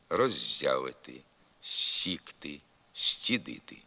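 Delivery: palatalized first sibilant in «роззявити», «сікти», «стідити»; softened prefix з/с. Shown as a demonstration. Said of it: "Пом'якшується також звук".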